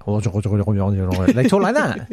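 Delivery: very slow, drawn-out South London accent. Shown as a demonstration. Host demonstrating how South London schoolkids talk, South London accent. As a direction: drag it out like a South London kid. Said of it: "talking like that".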